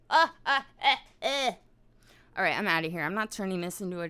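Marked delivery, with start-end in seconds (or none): 0.1-1.5 short high, loud grunts; emphatic grunts. Acted. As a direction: punch out a run of raised "uh"s. Noises capping the shouted rant.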